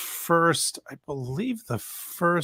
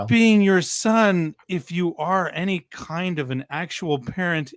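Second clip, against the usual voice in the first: higher, louder, slow scolding; indignant outburst; 5 semitones higher, 4 dB louder than usual. Acted. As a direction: lecture him like a disgusted parent. Ranting at Vince as a parent.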